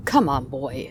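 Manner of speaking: put-on a touch of a menacing older man; opal miner. Opal miner beckoning the frightened boy, lightly voiced menace. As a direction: coax him along with a dark edge. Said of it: "said the opal miner".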